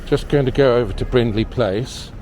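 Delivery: speaking through a face mask; muffled, covered mouth. Real, not acted. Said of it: "Apologies for the mask and the muffled voice".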